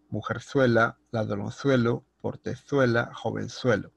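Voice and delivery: the z in "mujerzuela", "ladronzuelo", "portezuela" and "jovenzuelo" stretched into a strong Castilian th sound; teacher overdoing the z of "mujerzuela" and "jovenzuelo" as a lisped th; exaggerated z. Shown as a demonstration. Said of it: "he exagerado la pronunciación de la letra Z". (z exagerada como ceceo en "mujerzuela" y "jovenzuelo")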